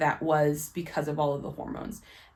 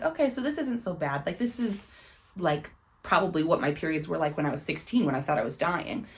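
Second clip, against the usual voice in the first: relieved inner voice. Retold or imitated. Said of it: "I was like".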